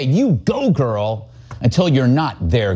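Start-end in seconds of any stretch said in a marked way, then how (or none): 0.0-1.3 mock cheering. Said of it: "Oh, they will say".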